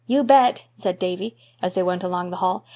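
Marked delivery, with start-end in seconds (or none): 0.1-0.6 lightly voiced eager boy; a quick, keen boy's answer; eager little boy.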